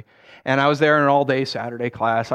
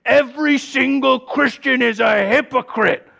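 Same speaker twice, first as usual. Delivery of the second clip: mild mock indignation; 8 semitones higher, 4 dB louder, slower than usual. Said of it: "he's like".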